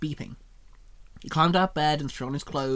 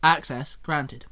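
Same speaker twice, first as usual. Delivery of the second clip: robot call; 4 dB louder, slower than usual. Acted. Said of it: "Alpha Prime called out".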